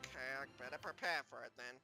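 very low, quick, quiet reply; resigned. Acted. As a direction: agree under your voice, hurriedly. Reluctant partner's muted reply.

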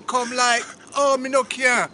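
put-on patois; mock Jamaican accent. Friend continues his reggae-singer bit, mock Jamaican. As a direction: carry on the playful Jamaican act.

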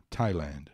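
Thailand with a plain T and no H sound; low, falling Thailand, said as "Tie-land"; silent H. Shown as a demonstration. Teacher warning against pronouncing the H, Thailand with plain T. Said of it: "nada de pronunciar esse H".

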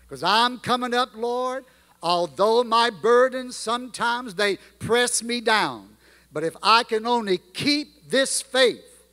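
put-on reciting old gospel lyrics in a rolling preaching cadence; hymn recitation. Preacher reciting a remembered hymn to the church, rhythmic and heartfelt. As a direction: let the hymn verse swell and settle.

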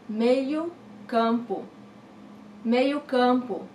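"meio campo" said slowly, each syllable clear; slow teacher model; slow, careful pronunciation. Shown as a demonstration. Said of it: "Midfielder, meio campo".

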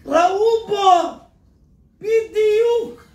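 "בדיוק" drawn out very slowly, high and loud; preacher stressing בדיוק word by word. Acted. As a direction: land hard on בדיוק.

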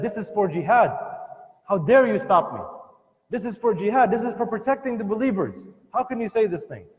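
hammed-up indignant king; retold angry ruler. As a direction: voice the ruler's outraged retort. Sultan's angry reply, retold.

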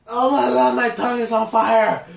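loud burning-tongue complaint; pained yell. Real, not acted. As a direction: yell out the burn. Sour candy burning tongue.

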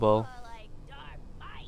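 loud drawn-out joke; loud slow shout. Real, not acted. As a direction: belt the joke out slowly. Joking shout during game banter.

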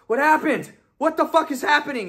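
high, frantic demand; panicked confusion. Retold or imitated. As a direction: re-enact coming to in total confusion. Waking from seizure, retold.

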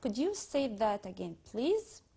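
very slow, word by word English request; very slow demo. Shown as a demonstration. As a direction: stretch each word for the class. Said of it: "يبقى". (ببطء شديد كلمة كلمة)

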